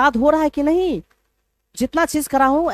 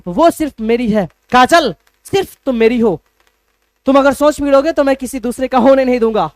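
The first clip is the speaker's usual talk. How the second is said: possessive lover; 2 semitones higher, 6 dB louder than usual. Retold or imitated. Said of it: "जैसे बोलते हो ना".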